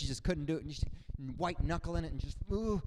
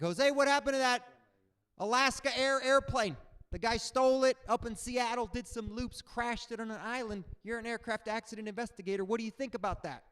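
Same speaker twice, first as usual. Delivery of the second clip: higher, eager questioning voice; curious passenger; 6 semitones higher than usual. Retold or imitated. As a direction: pester him like a nosy fan.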